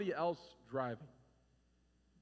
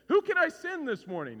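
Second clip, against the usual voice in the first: higher, louder call from above; a booming divine voice; 10 semitones higher, 8 dB louder than usual. Pretend. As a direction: call out like a voice from heaven. Voicing God's audible call.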